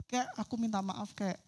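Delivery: put-on soft, timid child begging sorry; scared apology. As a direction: shrink into the apology, softly. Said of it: "sambil mukanya ketakutan gitu". (permintaan maaf pelan dan takut)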